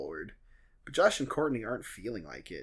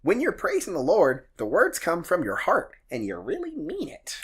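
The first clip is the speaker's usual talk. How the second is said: lightly voiced creepy puppet host; a hint of a creepy preacher; creepy Salty voice; 5 semitones higher, 3 dB louder than usual. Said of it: "my creepy, salty voice".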